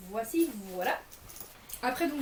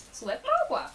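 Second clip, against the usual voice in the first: squeal; 6 dB louder, much faster than usual. Real, not acted. Embarrassed joke about the pocket.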